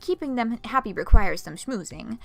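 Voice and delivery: lightly voiced French accent, half German; a faint put-on French accent for Ramel; smug gallery owner, faint French accent. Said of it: "My French accent sounds kind of German".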